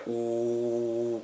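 long steady 우 with rounded lips; sustained 우 as a mouth-shape demo. Shown as a demonstration. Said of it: "우 해보세요".

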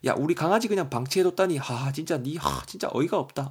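exasperated sighs, mock indignation; puppy owner scolds a friend, exasperated; acted anger. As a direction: huff in disbelief at their neglect. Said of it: "이렇게 막 화를 내는 거죠".

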